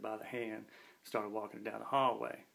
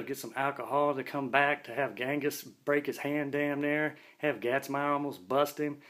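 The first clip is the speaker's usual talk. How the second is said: exasperated inner rant; 3 semitones higher, 4 dB louder than usual. Retold or imitated. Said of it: "I'm thinking".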